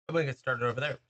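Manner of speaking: hiccuping between words; talking through hiccups. Real, not acted. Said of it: "Excuse the hiccups".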